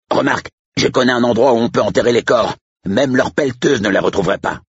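high-pitched, eager sidekick; helpful aside far up in pitch; agitated Manier. Acted. Manier offers Andrew a place to bury bodies, eager.

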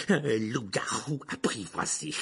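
high, loud mocking opening with scornful laughs; sneering villain. Teacher mocks the tame werewolf, sneering. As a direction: jeer at him, dragging the last words. Voices Rogue sneering at Lupin.

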